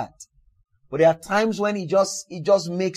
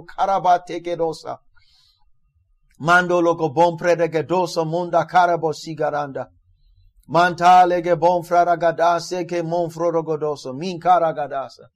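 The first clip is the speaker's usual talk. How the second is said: praying in tongues. Real, not acted. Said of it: "Could you pray in tongues".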